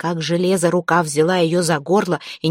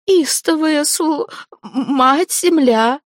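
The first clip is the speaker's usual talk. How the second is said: desperate high pleading; 9 semitones higher, much slower than usual. Acted. Zateya desperately justifies the potion to the dead man. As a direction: plead in panic, throat half closed.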